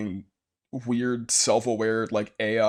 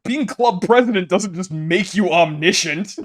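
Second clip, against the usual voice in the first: indignant; 8 semitones higher, 8 dB louder than usual. Acted. Teasing retort to Monica.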